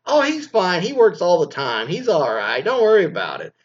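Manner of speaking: high, loud mock wife brushing it off. Wife excusing her husband to her parents, in a high loud mock voice. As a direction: sing it high and bright like the wife covering.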